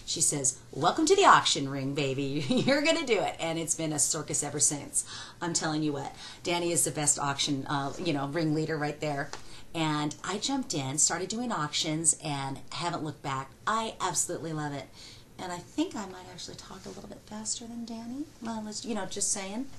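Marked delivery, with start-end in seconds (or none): 0.7-3.4 louder, hearty mock welcome with a laugh; mother-in-law's welcome. Mother-in-law welcoming new wife to the auction ring, loud and hearty. 15.4-19.7 a secret whispered aside; playful whisper. Real, not acted. Wife teasing that she out-talks her husband, whispered.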